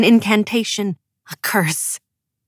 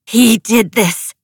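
slow, louder spat accusation; furious accusation; 3 semitones higher, 5 dB louder, slower than usual. A narrator's reading. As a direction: spit the words out at them. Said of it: "she spat".

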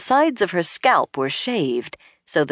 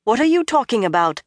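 sharp, raised demand; 7 semitones higher, faster than usual. A narrator's reading. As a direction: demand an answer, higher. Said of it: "Nynaeve demanded".

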